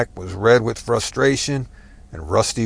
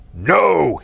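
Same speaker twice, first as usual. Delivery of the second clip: a high, loud groaned no; anguished groan; 7 semitones higher, 4 dB louder than usual. Acted. Angry man alone in his chair, groaning loud. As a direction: groan it out against the world. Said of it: "he groaned to the right".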